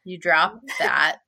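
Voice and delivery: low, slow, halting mumble of an acted line; awkward. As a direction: play it awkward, dragging the words out. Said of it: "he gets to be awkward".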